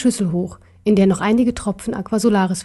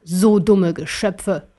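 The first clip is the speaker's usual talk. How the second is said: drawn-out, mildly scornful remark; slow imperial disdain; herablassend; much slower than usual. Acted. Kaiser scorns his victims. (leicht verächtlich, gedehnt)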